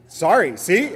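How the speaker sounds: sheepish laugh, high and loud; laughing at himself. Real, not acted. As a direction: laugh off the slip. Laughs at own mispronunciation.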